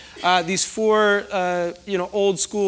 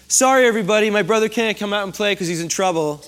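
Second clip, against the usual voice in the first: a smug little-sister taunt; self-satisfied. Retold or imitated. Sister gloating to friends that brother is grounded, smug. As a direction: gloat over the brother's punishment. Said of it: "with the most self-satisfaction ever".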